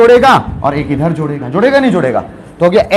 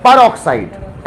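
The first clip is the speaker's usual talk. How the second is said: peroxide stretched very slowly, each sound held; drawn-out peroxide; 4 semitones lower, much slower than usual. Shown as a demonstration. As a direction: spell out peroxide slowly for the class. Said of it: "Gandhi जी हैं peroxide". (peroxide को बहुत धीरे खींचकर)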